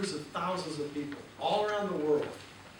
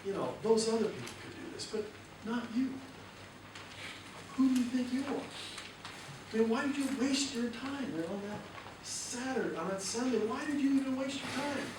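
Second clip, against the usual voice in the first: critical voice; 6 semitones higher, 4 dB quieter than usual. Retold or imitated. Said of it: "It says".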